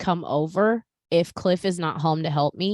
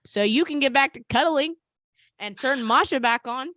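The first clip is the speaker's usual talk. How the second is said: a hint of a smug toddler; mock gloating kid; 6 semitones higher than usual. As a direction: gloat like a toddler who won. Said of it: "child gloating voiced".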